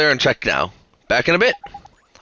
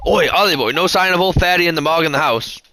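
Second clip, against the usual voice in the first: cheeky Drippy voice; 4 semitones higher than usual. Acted. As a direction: bounce in like a chummy fairy mate. Drippy greets Oliver.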